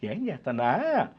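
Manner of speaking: comic variation on a film villain, stretched opening words; Jayaprakash Reddy. Acted. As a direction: draw out the words for laughs in the villain's voice. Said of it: "కానీ నవ్వాలంటే". (జయప్రకాష్ రెడ్డి హాస్య అనుకరణ)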